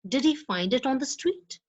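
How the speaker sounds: "Did he find it on the street?" rising at the end; rising yes-no question. Shown as a demonstration. Teacher demos a yes-no question rising at the end. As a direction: lift "street" up as a real question. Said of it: "often have a rising end".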